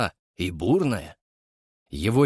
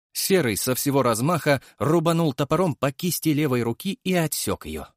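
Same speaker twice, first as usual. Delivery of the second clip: ordinary delivery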